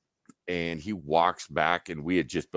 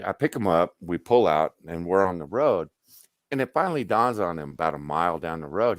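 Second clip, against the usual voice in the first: plain reading voice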